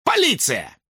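police announcement; belated shout. A narrator's reading. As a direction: add it hastily. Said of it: "словно спохватившись, добавил".

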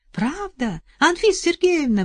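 high, loud call. Acted. Соседка выкрикивает вдове, высокий крик. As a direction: cry out the name. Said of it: "выкрикнула".

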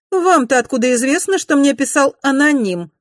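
high, loud sharp demand; suspicious anger. A narrator's reading. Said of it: "брови нахмурились".

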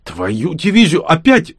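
high, loud, slow wail of exasperation; wailing curse. A narrator's reading. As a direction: cry it out in dismay. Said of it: "возопил Макс". (громкий вопль досады)

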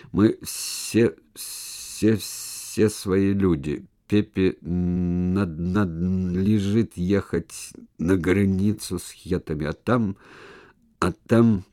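slow halting stutter; stammering. Acted. Stutterer explains Pepe's duty, stammering. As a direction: catch on each repeated word. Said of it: "самый неподдельный заика".

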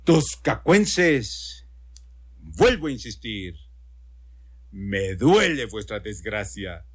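solemn, inflated political oratory; pompous orating governor. Acted. Governor to the disaster-struck townspeople, pompous solemn address. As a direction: declaim with weighty pauses between phrases. Governor resumes his speech.

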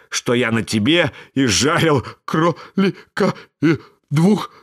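put-on high, pitiful boy's plea; pleading puppet. A narrator's reading. Buratino begs Karabas to let him go. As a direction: beg for mercy in a high little voice.

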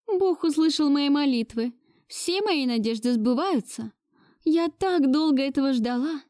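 put-on high, gushing old lady; pleased grandmother. A narrator's reading. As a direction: beam with satisfaction as grandmother. Grandmother voiced higher. (довольная бабушка)

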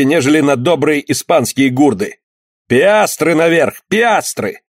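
high, roaring cry of wild joy; shrieking jackpot winner. Acted. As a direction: roar it out, delirious with joy. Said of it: "закричал, ревя от радости".

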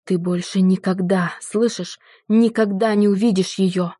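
mild shout, rising on the last words; breaking into a shout. Acted. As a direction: voice cracks into a yell. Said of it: "Его голос сорвался на крик".

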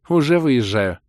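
suddenly glad to go; cheered-up voice. Acted. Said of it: "повеселевшим голосом отозвалась девушка".

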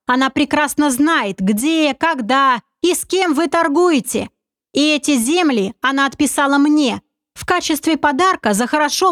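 a hint of a sly confident schemer; sly commander. Narrator voices commander Oleg.

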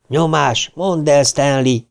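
squeaky head voice; high falsetto. Acted. Richie teasing Stan in a high falsetto. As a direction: pitch it up into a mocking falsetto. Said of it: "szólalt meg Ricsi magas fejhangon".

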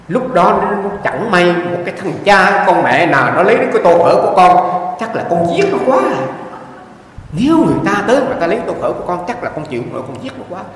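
mock furious hunger; worked-up retelling. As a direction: play the starving monk ready to kill over his bowl. Monk retells his hunger outburst.

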